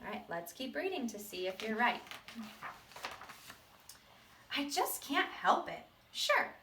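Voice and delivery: a hint of the seed retelling his past; lightly voiced seed. Teacher reading the seed's sad past to the class. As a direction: tell it as the seed, half remembering.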